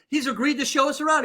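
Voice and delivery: hammed-up jolly McCoy; imitating McCoy. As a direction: announce it cheerfully as a done deal. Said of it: "he's like".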